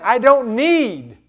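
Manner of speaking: loud, high declaration of faith; triumphant cry, easing toward the end; bold declaration. Acted. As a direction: proclaim it, leaning hard on the first words. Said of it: "He was saying".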